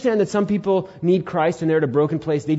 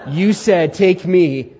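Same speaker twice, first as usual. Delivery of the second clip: mocking; 5 semitones higher, 7 dB louder, much slower than usual. Brothers mocking Judah's words.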